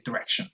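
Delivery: fast connected duh-rection; schwa in direction. Shown as a demonstration. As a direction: direction with schwa first syllable. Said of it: "in fast connected speech".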